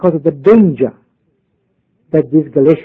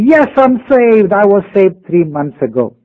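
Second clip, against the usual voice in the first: retold shout; 4 semitones higher than usual. Young Ugandan answers the missionary with great gusto, in a mild retold shout. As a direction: imitate a proud, gusto-filled declaration. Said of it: "he shouted to me".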